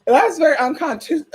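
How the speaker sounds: breaks into a laugh on "unconsti-" and stops; laughing through it. Real, not acted. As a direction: giggle as the word falls apart. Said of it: "I can't even say it".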